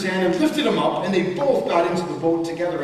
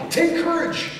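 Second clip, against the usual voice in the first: yelling; 7 semitones higher than usual. A narrator's reading. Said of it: "yelled to them through the storm".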